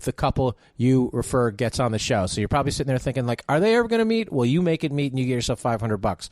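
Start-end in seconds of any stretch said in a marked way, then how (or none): 3.5-4.3 mock wondering. Mock listener wondering aloud.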